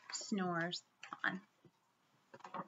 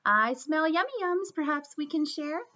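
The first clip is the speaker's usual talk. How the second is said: cheerful badger, a bit louder; grinning badger; 4 semitones higher, 4 dB louder than usual. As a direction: say it with a grin. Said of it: "Badger says with a grin".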